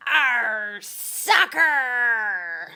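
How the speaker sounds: gruff pirate yell. A narrator's reading. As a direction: roar it as you kick the ball. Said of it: "kicked the ball and yelled".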